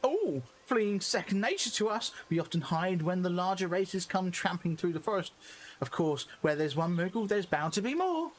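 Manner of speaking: moogle voice. Acted. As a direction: chirp it like a tiny moogle.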